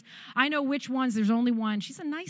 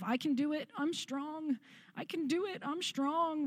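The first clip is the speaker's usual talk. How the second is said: self pep talk; 4 semitones higher, 7 dB quieter than usual. Retold or imitated. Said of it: "I kept saying to myself".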